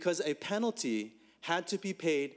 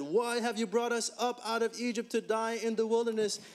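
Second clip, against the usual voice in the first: higher, whiny grumbling crowd voice; the people complaining to Moses about the wilderness, raised and whining; complaining Israelites; 6 semitones higher than usual. Acted. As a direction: play the grumbling people in the desert. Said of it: "spoke against God and against Moses and said".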